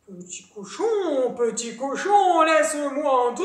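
big bad wolf at the door; wolf calling out. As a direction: stretch it, then swell to a demand. Wolf calls at brick house.

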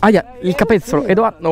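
ticklish yelp of protest; being tickled. Real, not acted. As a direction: wince and protest while tickled. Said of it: "il solletico no".

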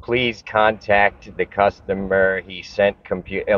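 slow, halting read of a clumsy seller message; mock broken English. Mocking the seller's message to viewers, slow halting read. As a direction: read it out slowly like a badly written note. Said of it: "just broken English".

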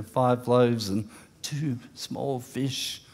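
small said slowly and softly, leaned on; emphasis on small. Shown as a demonstration. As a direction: linger on the word small to show how little. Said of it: "the emphasis is on the word small".

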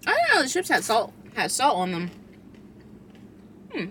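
talking with food in mouth; chewing while talking. Real, not acted. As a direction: mouth partly full of chips. Seen 4: Holds chip, lips closed and jaw working between bites throughout.

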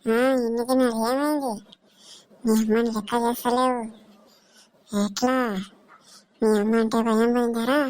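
ghostly, stretched-out scolding; feigned possession. Pretend. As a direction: drag out the line endings like a possessed woman. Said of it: "నిజంగా దయ్యం పట్టినట్టుంది".

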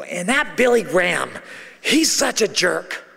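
re-enacted griping; mock scornful. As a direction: act out a mild rant, stretching the insult. Acts own past rant.

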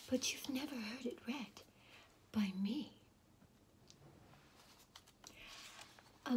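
ASMR whispered story reading; whispered storytelling. Acted. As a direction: whisper the story like a bedtime secret. Whispering reader throughout.

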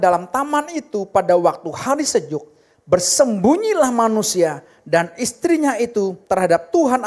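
loud, steady group reading of the verse; loud scripture reading. Real, not acted. Congregation reads scripture aloud together.

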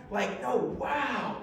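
slow, reverent wow; the right wow, slow and reverent. Shown as a demonstration. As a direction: say it with awe and celebration. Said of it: "With reverence, awe, celebration".

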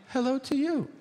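high, sing-song greeting; mock-polite reply. To the kids, a high sing-song greeting. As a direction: chirp it back like a cheery host.

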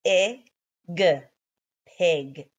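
p, i, g, then blend pig; sounding out. Shown as a demonstration. Teacher to kids: spell out pig. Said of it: "You should have found your letters for p".

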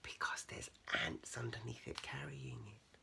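very soft, whispery explanation; hushed aside. Real, not acted. Reader explaining the picture to child, hushed aside. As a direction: let them in on it quietly.

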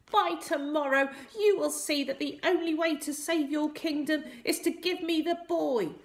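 high squeaky villain; cackling little man. A narrator's reading. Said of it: "the little man cackled".

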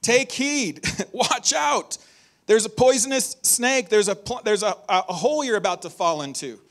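high, loud, urgent alarm; alarmed warning. Retold or imitated. Preacher voicing Jesus' urgent warning to disciples, loud and high. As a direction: shout the danger like a real threat. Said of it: "this is the kind of warning that Jesus is giving".

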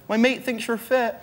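heckler. Retold or imitated. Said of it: "someone who went".

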